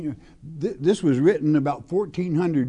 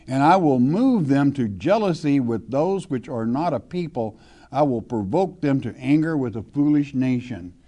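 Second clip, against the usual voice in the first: scripture reading. Acted. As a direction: read the verse with weight, like a preacher. Reads scripture aloud from pulpit.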